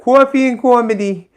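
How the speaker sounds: mock announcer hype; host impression. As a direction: punch the show name like a jingle. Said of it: "That's my brilliant impression of somebody".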